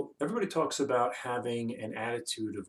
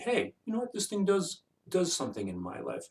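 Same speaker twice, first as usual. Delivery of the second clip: much higher, wide-eyed marveling at a plain gadget; 8 semitones higher than usual. Retold or imitated. Vlogger voicing a viewer marveling at his phone, high mock wonder. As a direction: voice jumps up as if struck by a small wonder. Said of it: "be kind of marveled at it".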